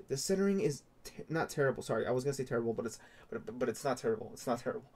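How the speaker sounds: shaky hands, nervous excited voice; adrenaline shakes. Real, not acted. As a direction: talk through real adrenaline jitters. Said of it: "my hands are shaking".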